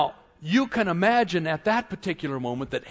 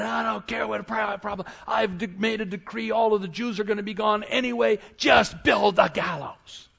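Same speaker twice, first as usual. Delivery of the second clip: raised voice, punching the final order; impatient dismissal; 6 semitones higher than usual. Acted. Haman waving away the prophecy of trouble, impatient and dismissive. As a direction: brush it off, getting more forceful. Acted Haman brushing off a problem.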